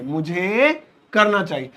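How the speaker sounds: slow, deliberate model line; मुझे करना चाहिए said slowly, each word clear; slow repeat. Shown as a demonstration. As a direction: spell it out slowly.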